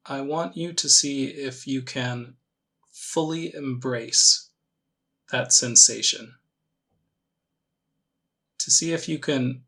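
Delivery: calm meditation guide, long pauses between phrases; measured, gently leading meditation voice; guided meditation. Acted. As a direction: ease them into it with unhurried, spaced-out instructions.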